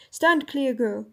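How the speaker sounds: a touch of a grim kingly command; stern order. Acted. King ordering Jill aside, mildly grim command. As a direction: order her aside, grimly. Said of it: "with a terrible voice".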